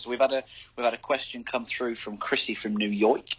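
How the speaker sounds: put-on a half-hearted stab at a New York accent; bad New York accent. Host announcing a listener question from New York, faint New York accent. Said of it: "that was a terrible accent".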